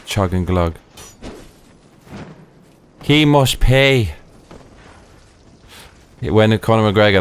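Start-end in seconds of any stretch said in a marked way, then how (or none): 3.0-4.1 slow, drawn-out, higher movie-villain vow; dramatic vengeance vow. Pretend. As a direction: stretch it out like a grim revenge oath. Catchphrase repeated while gaming.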